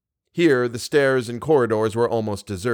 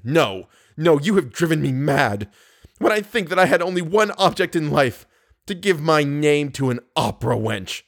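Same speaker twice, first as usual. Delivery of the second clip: bitter anger; 4 semitones higher than usual. Acted. Distraught lover rejects her forgiveness.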